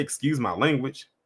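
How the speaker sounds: ordinary talk, nothing marked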